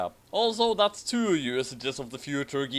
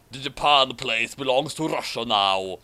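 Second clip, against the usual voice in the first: Putin voice. Acted. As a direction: drop into Putin's voice. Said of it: "Oh wait, that's Putin".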